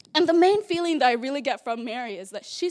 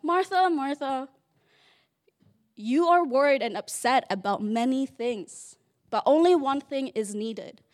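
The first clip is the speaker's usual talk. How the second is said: calm; 3 dB louder than usual. Retold or imitated. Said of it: "Jesus here is very calm".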